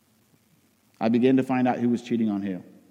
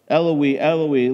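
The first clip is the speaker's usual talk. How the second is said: raised voice, calling out to God; loud cry; 5 dB louder, slower than usual. Acted. Jesus crying out at three in the afternoon, raised voice. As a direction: cry it out with some force. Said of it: "cried out in a loud voice".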